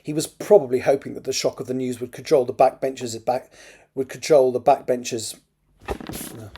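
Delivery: measured, expressive novel reading; story narration. A narrator's reading. Author reads a draft chapter aloud, story narration. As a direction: read it out as an audiobook narrator.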